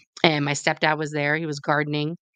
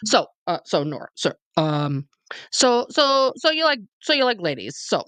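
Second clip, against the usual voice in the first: halting put-on godfather voice, mostly pitched up; godfather impersonation; 8 semitones higher than usual. Godfather reacting to her liking ladies, halting impersonated voice. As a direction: stammer and repeat like an awkwardly supportive godfather. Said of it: "I'll just do my impersonation of him".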